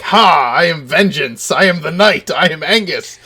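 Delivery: loud, proud battle-cry declaration; heroic boast. Retold or imitated. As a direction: announce yourself like a swaggering knight. Angus bursting through doors.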